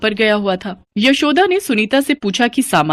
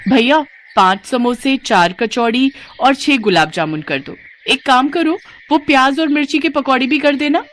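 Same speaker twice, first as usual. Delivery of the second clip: eager, higher voice ordering snacks; greedy daughter-in-law ordering; 5 semitones higher than usual. Acted. Sunita ordering a pile of snacks from the sweet seller, eager. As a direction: rattle off the order hungrily.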